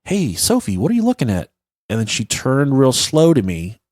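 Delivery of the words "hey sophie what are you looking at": put-on higher-pitched, lilting question to a child; voiced question to daughter. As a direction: call lightly to your kid, pitched up. Father calling to his daughter.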